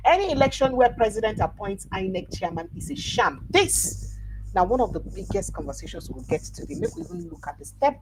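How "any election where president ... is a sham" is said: higher, louder headline delivery; forceful radio news read. Acted. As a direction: hit the headline hard and high. Reads a quoted headline.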